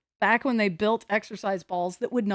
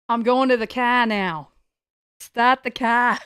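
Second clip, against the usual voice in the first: louder, sassy British accent; British with attitude; 2 semitones higher, 5 dB louder than usual. Shown as a demonstration. Streamer trying a British accent with attitude. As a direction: sound British and cheeky. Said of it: "British with an attitude".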